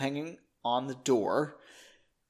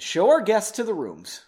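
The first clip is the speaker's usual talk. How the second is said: commanding; 5 semitones higher, 5 dB louder than usual. A narrator's reading. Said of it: "he commanded".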